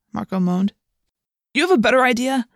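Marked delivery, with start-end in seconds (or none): 1.5-2.5 sharp higher snap; snapping. Acted. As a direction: bite back the question. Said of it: "I snapped".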